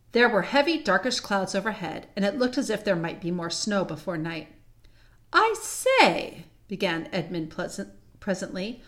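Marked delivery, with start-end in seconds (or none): 5.3-6.4 high-pitched attention-getter; bright suggestion. Acted. Edmund breaks in to suggest another route, piping up.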